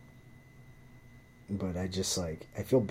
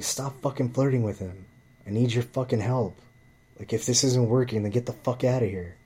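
raised, heated boss rant; angry scolding; 3 semitones higher than usual. Retold or imitated. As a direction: lay down the law to her. Cook scolding waitress again.

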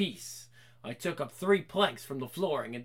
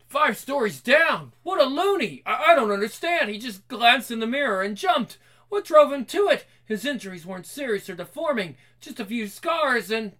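higher, louder outcry; shocked exclaim; 4 semitones higher, 5 dB louder than usual. Acted. Reader redoes the doctors' reaction in order. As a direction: reread it with alarm. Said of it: "Let's read that again".

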